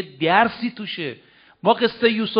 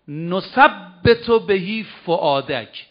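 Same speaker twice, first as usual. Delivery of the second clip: slow Quran recitation; much slower than usual. Acted. Quran verse recited slowly.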